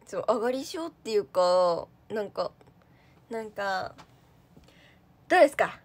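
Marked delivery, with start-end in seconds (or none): 5.3-5.8 loud, stiff stage-fright delivery; tense emcee voice; stiff nervous talk. Retold or imitated. Mimicking her own stage-fright way of talking, loud and stiff. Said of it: "そういう喋り方になっちゃう".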